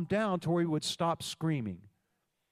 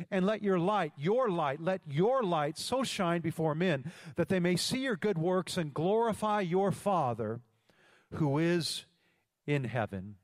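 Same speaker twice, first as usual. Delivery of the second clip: scripture reading; 3 semitones higher than usual. Acted. Pastor proclaiming Matthew to his church, preaching cadence. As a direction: proclaim the verse to the house, drawing it out.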